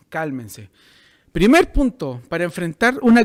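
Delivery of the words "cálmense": low, soft and soothing; calming reassurance. Acted. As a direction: settle them down gently in a hushed low tone. Voices Jesus calming the disciples.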